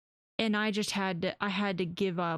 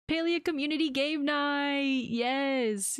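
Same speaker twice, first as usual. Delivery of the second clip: excited; 6 semitones higher, slower than usual. Real, not acted. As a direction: hype it up. Excited announcement.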